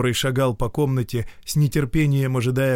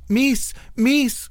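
calling out. Acted. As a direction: call across the house to the governess. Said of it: "крикнула она". (громкий высокий оклик)

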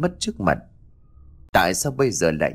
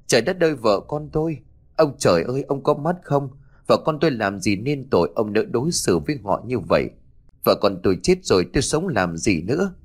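anguished wail; 3 semitones higher than usual. Acted. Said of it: "Anh đau khổ bật khóc".

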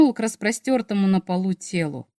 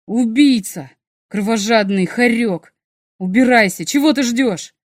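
angry shouting; 6 dB louder than usual. Acted. Sergey drives off his attacker.

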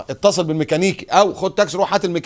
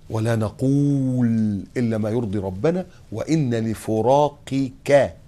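very slow, softer, drawn-out words; solemn slow recitation; 6 semitones lower, 3 dB quieter, much slower than usual. Acted. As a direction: let the Prophet's grief weigh on each word. Solemn slow quotation of hadith. (تلاوة بطيئة حزينة)

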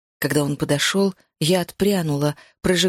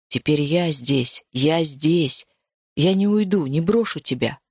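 soothing male voice; 3 semitones lower than usual. Acted. Hero comforts crying heroine. (низкий успокаивающий мужской голос)

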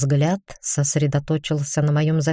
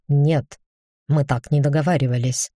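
indignant. A narrator's reading. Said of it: "возмутился Алмазный".

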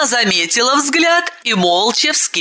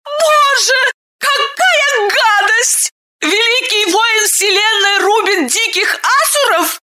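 horrified woman; 14 semitones higher than usual. A narrator's reading. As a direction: wail over the poor master. Woman lamenting loudly. (высокий причитающий женский голос)

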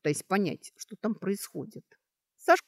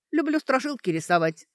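higher-pitched, put-on innocence; studiously naive; 7 semitones higher, 4 dB louder than usual. A narrator's reading. Girl explains why she wants her picture, studiously naive. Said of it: "старательно наивно объяснила она".

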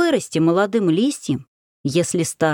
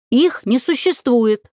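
упрямый выкрик; 6 semitones higher, 3 dB louder, slower than usual. Acted. Ярослав упрямо спорит.

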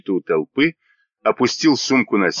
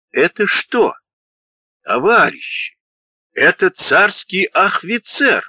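much higher, slow excited cry; exposing an officer; 9 semitones higher than usual. A narrator's reading. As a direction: call the crowd to see. Soldier exposes officer to crowd.

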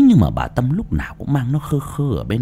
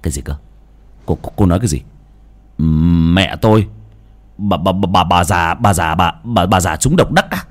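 stunned, stuttering disbelief; husband stammering in shock at the news; 4 semitones lower than usual. Acted. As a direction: stumble over every word in shock. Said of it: "lắp bắp".

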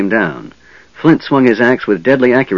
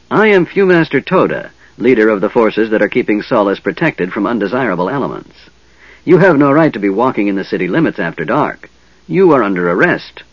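pompous hobgoblin leader. Acted. Hobgoblin Fewmaster Toda lording it over the travelers, pompous. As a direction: announce the arrest like a petty tyrant. Goblin leader declares arrest.

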